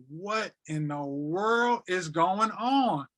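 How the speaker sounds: slow, drawn-out bewildered question; reliving a tearful moment, words dragged out slowly; retold tearful disbelief. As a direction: stretch each word out in stunned disbelief. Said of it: "I just start crying".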